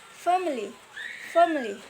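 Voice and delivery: "family" stressed on the first syllable, then falling; stress placement. Shown as a demonstration. Teacher showing stress in words ending in E, "family" stressed on its first syllable. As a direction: hit the first syllable of "family" and let it fall. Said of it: "Stress, uh, placement".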